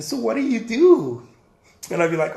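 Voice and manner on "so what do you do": high, loud, drawn-out question; stretched-out mock small talk, pitched up; curious gallery owner. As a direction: imitate an eagerly interested host. Voicing the hoped-for gallery owner's question.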